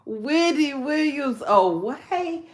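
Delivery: wailing cry breaking into a whisper; real half-laughing wail. Real, not acted. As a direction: cry out high, then whisper the name. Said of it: "laugh to keep from crying".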